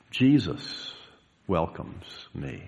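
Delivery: quiet answer. Acted. Preacher answers the discouraging voice with the text, quiet assurance. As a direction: answer softly, dropping low at the end. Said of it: "we answer that discouraging voice".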